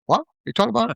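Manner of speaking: high, puzzled voice of a stranger who can't follow; baffled listener. Retold or imitated. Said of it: "people go".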